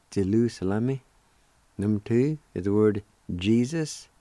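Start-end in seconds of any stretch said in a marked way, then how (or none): 0.1-1.0 Jerusalem run together as "jilusilami"; Cherokee pronunciation. Shown as a demonstration. Teacher giving the whole word, Jerusalem in Cherokee pronunciation. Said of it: "It's pronounced like this".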